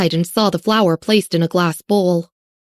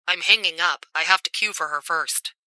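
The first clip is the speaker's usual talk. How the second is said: cold and casual; 8 dB quieter than usual. A narrator's reading. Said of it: "Jacob's voice was a little cold and casual".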